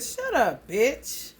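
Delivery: mild mock snap from a little kid; little kid talking back. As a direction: imitate a small child telling someone off. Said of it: "little baby in the background said".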